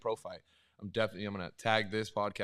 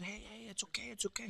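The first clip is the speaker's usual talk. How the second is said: retold hushed whisper, higher; imitating a gentle whisper; soothing whisper; 12 semitones higher, 9 dB quieter than usual. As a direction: whisper to calm a crying kid. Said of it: "And I said".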